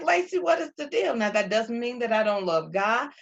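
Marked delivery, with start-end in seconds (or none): 0.0-1.1 exasperated self-talk. Retold or imitated. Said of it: "And I'm like".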